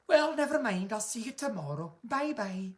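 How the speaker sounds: lightly voiced friendly sign-off; a hint of a TV host saying goodbye; Lorraine impression. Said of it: "that's my Lorraine impression".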